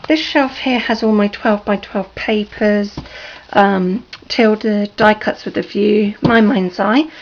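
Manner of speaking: croaky from a sore throat. Real, not acted. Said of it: "Sorry for my croaky voice".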